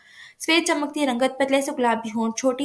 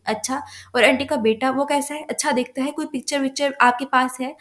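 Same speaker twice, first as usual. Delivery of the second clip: mildly excited. Acted. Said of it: "Rubab excited होते हुए बोली".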